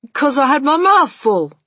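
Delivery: put-on high, loud child's voice; cheeky boy's retort. A narrator's reading. Bruno excuses himself to grandmother, loud childish retort. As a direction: answer back as a loud little boy.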